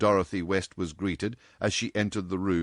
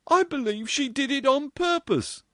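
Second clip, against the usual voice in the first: spiteful; 3 dB louder than usual. Acted.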